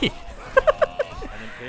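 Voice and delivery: a sudden high, airy giggle; delighted little giggle; high breathy giggle. Real, not acted. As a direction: giggle with glee at the mayhem. Laughs at crushing soldiers.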